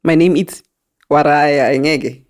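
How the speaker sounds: slow, careful, mock-proper self introduction. Friend mimics the girl's stiff English intro, slow and careful. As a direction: drag out the name like a stiff intro.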